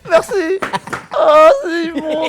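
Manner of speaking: gagging. Real, not acted. Gagging over rotten fish smell.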